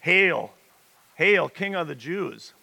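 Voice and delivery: mocking yell. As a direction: jeer it like soldiers mocking. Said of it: "and they yell".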